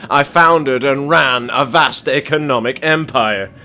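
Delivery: measured, menacing businessman voice; a lightly voiced game mogul, calm and threatening; cold tycoon. Game tycoon coldly warns the courier, lightly voiced.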